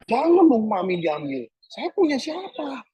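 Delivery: high, slow pleading cry to God; pleading protest. Retold or imitated. Pastor retelling begging God to spare Mami, slow and high. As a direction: beg God not to take her, voice rising. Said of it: "Saya protes".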